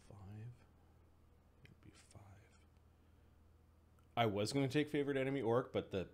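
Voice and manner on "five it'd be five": whispered aside to self; whispering. Real, not acted. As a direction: whisper the number to yourself. Unvoiced aside.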